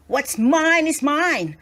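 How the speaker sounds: slow, blunt rude retort; a farmer guarding his prize. A narrator's reading. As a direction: brush him off rudely. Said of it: "returned the farmer rudely".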